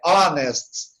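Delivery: "honest" starting on the vowel, ON-est; silent H. Shown as a demonstration. Teacher repeating the exception, slow "honest" without H. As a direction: say "honest" slowly with no H. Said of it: "você não pronuncia o H".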